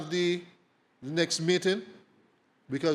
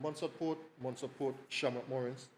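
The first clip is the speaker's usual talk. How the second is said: quiet clipped radio call; crackly military radio; 4 semitones lower, 9 dB quieter than usual. Shown as a demonstration. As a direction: call it like over a handset.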